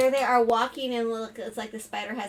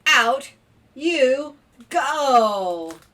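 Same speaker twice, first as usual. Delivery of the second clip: loud, higher, punched-out order; stern mock shout; 4 semitones higher, 10 dB louder, much slower than usual. Dad throwing the spider out, mock stern shout. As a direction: banish it in storybook outrage.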